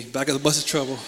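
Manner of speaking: said again through a laugh. Real, not acted. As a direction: chuckle the line as you repeat it. Repeats the joke laughing.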